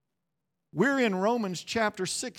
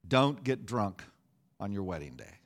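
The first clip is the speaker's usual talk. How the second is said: stern trooper; 10 semitones lower, 5 dB quieter than usual. Retold or imitated. Trooper voiced in story.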